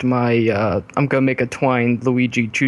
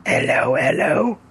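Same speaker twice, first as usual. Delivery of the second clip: mock Cockney greeting, rising; cheery hammed-up Cockney hello; Cockney accent; 5 semitones higher, slower than usual.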